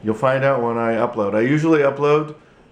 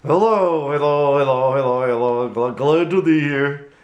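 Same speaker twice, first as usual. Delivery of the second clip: higher, bright puppet hellos; puppet greeting; 3 semitones higher, 3 dB louder than usual. Acted. Puppet Goodman greets the viewers, higher puppet voice. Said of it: "here I have Goodman Puppet".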